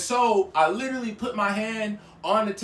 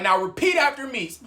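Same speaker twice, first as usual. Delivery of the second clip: firm, raised-pitch retold order; stern command; 4 semitones higher than usual. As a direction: instruct them firmly. Acted command, first take.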